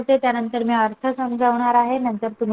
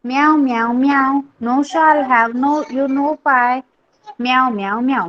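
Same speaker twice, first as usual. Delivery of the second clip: lively nursery-rhyme reading with meows; poem recitation; much slower than usual. Acted. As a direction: recite the kittens' verse for young pupils. Reads the poem aloud to class. (मुलांसाठी कविता वाचन)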